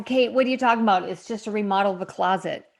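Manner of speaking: quick mock objection; imagined doubting viewer. Viewer questioning Kate over a closet remodel, fast and mock-dismissive. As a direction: rattle it off as a puzzled challenge. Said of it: "you might go".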